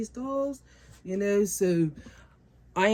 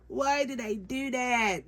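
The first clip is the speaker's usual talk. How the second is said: slow, high mock wail; mock regret; 6 semitones higher, slower than usual. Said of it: "I'd be like".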